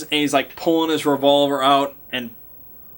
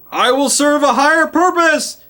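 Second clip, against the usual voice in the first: 1 fanatic high cry; 13 semitones higher, 5 dB louder than usual. Retold or imitated. Fanatic cultist's cry before jumping.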